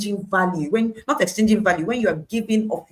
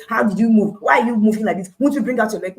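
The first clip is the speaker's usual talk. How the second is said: mock scolding, a bit louder and higher; mock shouting at a snake; 3 semitones higher, 5 dB louder, faster than usual. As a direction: pretend to yell at a snake. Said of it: "gone to shout at that snake".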